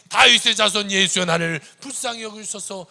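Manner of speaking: loud insistent plea; pleading cry. Acted. Blind man crying out despite the beatings, loud plea. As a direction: keep crying out regardless. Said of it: "상관없이".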